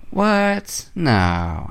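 shocked disbelief. Retold or imitated. Friend retelling her spoiler reaction, shocked disbelief. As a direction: pitch jumps way up on a stunned what, then drops.

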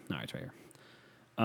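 slow whisper to himself. Real, not acted. Podcaster whispering to himself as he finds his phone. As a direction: whisper it, relieved to find it.

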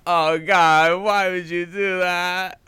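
high, loud, hammed-up anguish; anguished movie wail. Fan acting out Howard's reaction to Julia, wailing. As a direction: cry it out high and stretched. Acts out breakdown scene after reveal.

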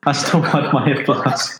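high, drawn-out comic whine; mock wail. Player calling after old woman for her flask, high slow whine. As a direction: plead playfully for a lost treasure.

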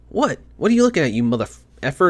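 high, sneering tough-guy challenge; mock confrontation. Gamer acting out picking a fight with an NPC, mock aggressive. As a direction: pick a fight with a stranger, hammed up. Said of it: "go up to and say".

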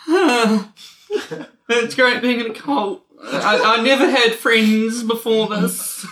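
high, slow ghostly spirit wail; a sobbing, laughing cult spirit voice. Acted. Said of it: "you'll have to do the spirit's voice".

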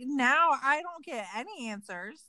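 aggrieved, pretend-upset grumble; mock complaining. Complaining that nobody can give answers, mock aggrieved. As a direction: play up the petty grievance. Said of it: "I would be complaining about".

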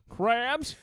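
high squeaky snail voice; Gary voice. Retold or imitated. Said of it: "I can do a Gary voice".

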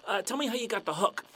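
high-pitched, gushing sympathy turning eager; hammed-up fanboy excitement. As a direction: gush like a starstruck listener. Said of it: "And the guy's like".

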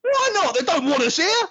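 sulky Ben. Acted. Acting Ben in reenactment.

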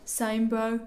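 light mock-Birmingham reply; attempted Birmingham accent. Agreeing with the number neighbour, light Birmingham accent. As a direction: casually answer in a Birmingham voice.

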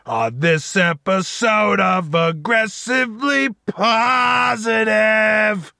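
slow, shouted show intro; loud intro shout. Shown as a demonstration. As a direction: belt it out like a host. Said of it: "restart of the intro line".

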